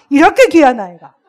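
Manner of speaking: 이렇게 귀한 아이가 forced out loud through clenched teeth; teacher biting back anger at a troublesome child; through gritted teeth. Shown as a demonstration. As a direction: hold back a curse while praising. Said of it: "이를 이렇게 물고 했어".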